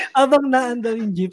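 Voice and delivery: can't hold back the laugh while telling it. Real, not acted. Friend laughing while retelling the vomiting in the jeep.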